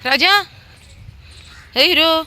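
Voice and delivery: shower the dog with high cooing worry. Real, not acted. Woman pleads with the dog Raja to eat, high doting baby talk.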